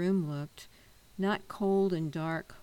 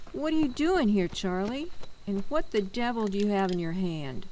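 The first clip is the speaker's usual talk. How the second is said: higher, louder startled anger; angry demand; 4 semitones higher, 5 dB louder than usual. Acted. Mister Mason confronting Charlie on his doorstep, angry. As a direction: catch him red-handed, demanding. Homeowner catches boy with paint.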